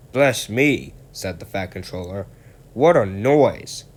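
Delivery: taken aback by the racket; startled. Acted. Gordon hisses past rudely.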